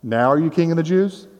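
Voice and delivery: sincere, challenging question with a rising end; earnest challenge. Shown as a demonstration. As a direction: press him for a real answer, no sarcasm. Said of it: "not saying this sarcastically, but more like".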